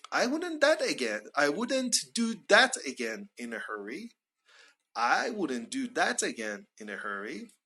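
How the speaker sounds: "that" picked out with a pitch peak; stress on THAT. Shown as a demonstration. Adding "in a hurry" to point out a mistake, stress on "that". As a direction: emphasise "that", then carry on through the phrase. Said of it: "we put stress on that".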